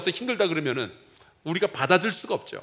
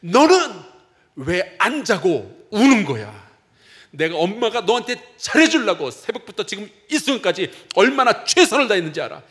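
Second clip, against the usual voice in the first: mother's angry outburst; 5 dB louder than usual. Retold or imitated. Pastor acts out a tired mother yelling at her crying baby, angry shout. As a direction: snap at the crying baby, fed up and exhausted. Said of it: "큰 소리로 화를 내는".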